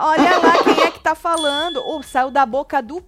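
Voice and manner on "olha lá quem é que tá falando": high, louder laugh through the words; laughing jab. Real, not acted. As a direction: laugh at the irony. Laughing sarcastic retort. (falando rindo, mais alto e agudo)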